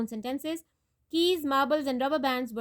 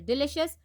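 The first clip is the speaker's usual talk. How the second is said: "Delicious" stressed on LI; careful teacher's "Delicious", weight on LI; second-syllable stress. Shown as a demonstration. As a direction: say "Delicious" as de-LI-cious. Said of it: "second syllable".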